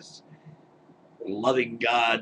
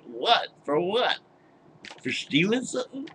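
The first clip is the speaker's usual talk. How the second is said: very high disbelieving question; stunned, you can't be serious; incredulous; 7 semitones higher than usual. Real, not acted.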